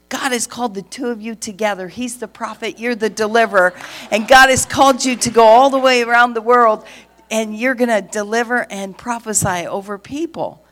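starts level, builds to a loud proclaiming call; building prophecy. Retold or imitated. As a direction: rise into a big prophetic declaration. Man prophesying over couple.

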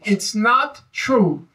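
slow, stress on not; emphatic. Retold or imitated. Quoting Douglass's eulogy to the audience, stress on not. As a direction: lean hard on not, slowly. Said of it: "he kept saying it emphatically".

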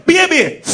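put-on "Baby" high and loud with a lisped s; added lisped s. Mocking women adding letters for effect, lisped "Baby". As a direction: tack a hissy lisp onto "Baby". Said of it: "They just add it on there for effect".

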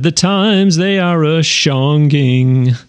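slow, drawn-out comic misspeak of "a-shonging"; Steve Martin impression. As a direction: stretch it out like a goofy comedian. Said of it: "the old Steve Martin comedy albums when he said".

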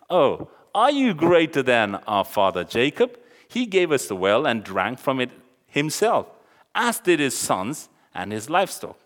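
teasing, emphatic challenge; mocking. Samaritan woman challenging Jesus over father Jacob, mocking. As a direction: act out her mockery with a loud opening question. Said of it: "So she's just mocking him".

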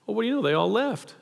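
mock surprise, pitch jumping up on "what do you know"; lightly acted fake astonishment; feigning surprise. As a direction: play it like you didn't notice they left. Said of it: "picture Jesus almost feigning surprise here".

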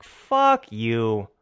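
muttered inner curse at a rude customer; cursing him out only in your head; silent fury in my head. Retold or imitated. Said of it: "In my head, I'm like".

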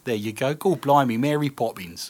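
hammed-up British accent passed off as Welsh; joke Welsh accent. Host teasing co-host over what a cuppa is, in a joke Welsh accent. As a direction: put on a mock Welsh accent, badly on purpose. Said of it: "That's my best Welsh accent".

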